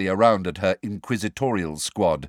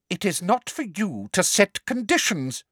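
harsh; 10 semitones higher than usual. Acted. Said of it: "said Professor Umbridge harshly".

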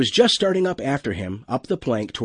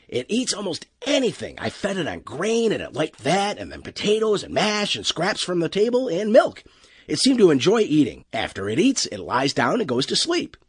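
higher-pitched, lightly acted young-hand report; lightly voiced crewman, eager; 7 semitones higher than usual. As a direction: explain helpfully to the captain, a touch higher.

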